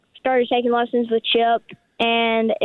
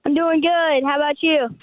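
excited; 2 semitones higher than usual. Real, not acted. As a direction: answer with real, eager excitement. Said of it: "I love the excitement in your voice".

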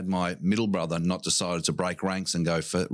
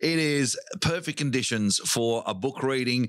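high, fast footy commentator; sports commentator; 5 semitones higher than usual. Acted. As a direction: call it like a footy broadcast. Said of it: "I said that like a commentator".

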